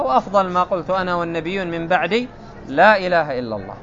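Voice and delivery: ordinary talk, nothing marked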